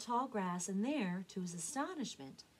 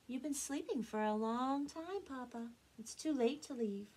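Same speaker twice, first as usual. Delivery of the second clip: put-on higher, calm young duck voice; 5 semitones higher than usual. Elmer answering his frantic papa, calm. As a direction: answer calmly and without alarm. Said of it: "Elmer answered calmly".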